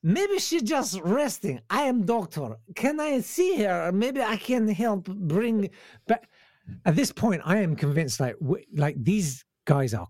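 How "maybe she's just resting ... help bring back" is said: put-on Ukrainian accent. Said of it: "pretending we're from Ukraine".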